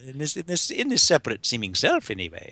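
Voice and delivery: normal talking voice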